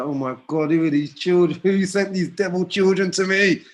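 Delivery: high, laughing mock exasperation; hammed-up cry of despair at devil children. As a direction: play the overwhelmed dad, laughing. Mock despair at his kids.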